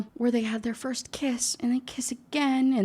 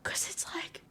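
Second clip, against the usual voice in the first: hushed whisper; 9 semitones higher than usual. Real, not acted. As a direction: whisper it, scandalised. Hushed retelling of the drowning.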